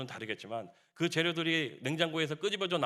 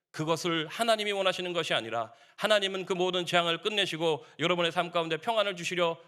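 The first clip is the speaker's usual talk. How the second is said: raised, insistent pulpit voice; impassioned preaching; 3 semitones higher, 4 dB louder than usual. Real, not acted. Preacher appealing to congregation in pain at night, impassioned preaching. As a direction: press the point on the congregation with energy.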